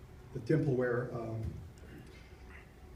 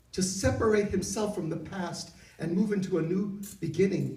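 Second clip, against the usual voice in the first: voice of God; 5 semitones higher than usual. Retold or imitated. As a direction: lift it up like God speaking from above. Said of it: "he said".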